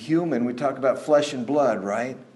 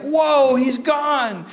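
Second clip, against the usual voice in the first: very high, louder whoa then rushed telling; startled whoa; 12 semitones higher, 4 dB louder, much slower than usual. Retold or imitated. Disciples recalling Jesus vanishing, startled. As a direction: caught off guard.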